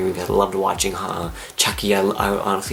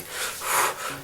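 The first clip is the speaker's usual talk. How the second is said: soft, anxious blown-out breath; imitated panicky breath; 8 dB quieter than usual. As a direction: exhale as if freaking out. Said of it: "freaking out".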